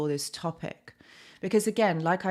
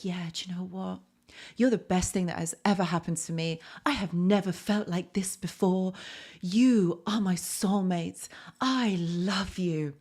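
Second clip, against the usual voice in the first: sarcastic. Retold or imitated. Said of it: "I'm probably being a bit sarcastic when I say this".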